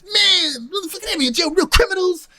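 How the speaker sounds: high-pitched mock freak-out; tripping out. Friend just out of jail, tripping out. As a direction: imitate a rattled friend, voice way up. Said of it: "he's just tripping right now".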